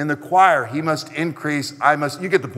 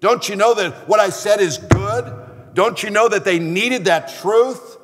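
a touch of raised indignation; mock the offended man's protest, a little higher; retold angry outburst; 4 semitones higher than usual. Offended churchman protesting to his pastor, mildly indignant. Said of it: "he got angry".

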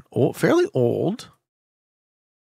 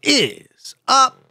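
high, booming show-opening greeting, last words stretched out; big drawn-out hype-man yell; hyped intro shout; 11 semitones higher, 10 dB louder, much slower than usual. Acted. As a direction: belt out the opening to the audience. Streamer's opening greeting to viewers.

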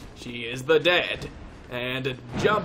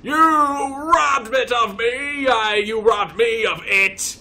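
loud, higher, drawn-out ranting; mock outrage; 5 semitones higher, 6 dB louder than usual. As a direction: rant theatrically at the treasure robber. Mock outrage at lost treasure.

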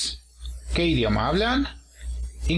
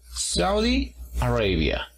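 "Saudi Arabia" slowly, SAU-di a-RAY-bia; syllable stress demonstration; slower than usual. Shown as a demonstration. Teacher models "Saudi Arabia" slowly, marking each word's stressed syllable. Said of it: "segunda sílaba".

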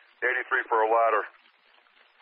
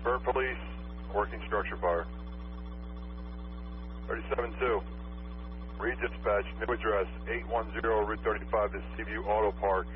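dispatcher over the radio; crisp radio dispatch call; urgent firefighter radio; 3 dB quieter than usual. Real, not acted.

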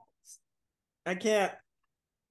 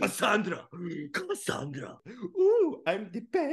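mocking impression; 5 dB quieter than usual. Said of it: "my character's voice".

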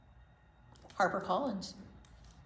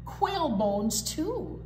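a lightly voiced swaggering truck; boastful garbage truck; slower than usual. Reading to kids, a cocky garbage truck brags. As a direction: brag like a proud garbage truck.

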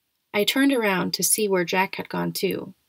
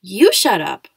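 louder retort; yell; 8 dB louder, slower than usual. Acted. Julian yells back at Jack, louder. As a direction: shout it straight back. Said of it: "Julian yelled".

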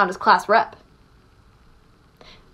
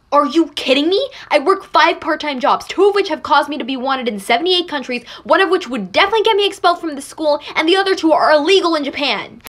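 indignant rant; 3 semitones higher, 3 dB louder, faster than usual. Acted. Indignant rant about five jobs.

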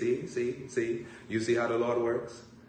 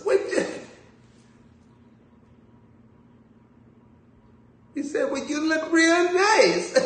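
imitating old white lady; 14 semitones higher, 6 dB louder than usual. Preacher imitating an older white lady fan, gushing. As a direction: gush like a starstruck older lady. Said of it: "the lady up there tells".

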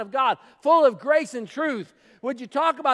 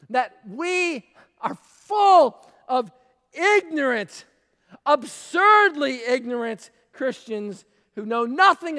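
emphatic shout; 3 dB louder, slower than usual. Real, not acted. Preacher scolding ignorant congregation.

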